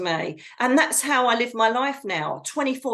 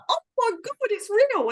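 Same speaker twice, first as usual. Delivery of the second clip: stunned disbelief; 12 semitones higher than usual. Retold or imitated. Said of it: "they're like".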